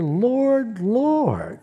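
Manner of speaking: high, earnest calling out; sincere plea. Acted. The shut-out pleading sincerely with the Lord. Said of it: "And they're so sincere".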